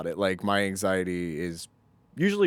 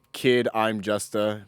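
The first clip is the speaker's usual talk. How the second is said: garbled title read slowly; much slower than usual. Retold or imitated. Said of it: "but then, like".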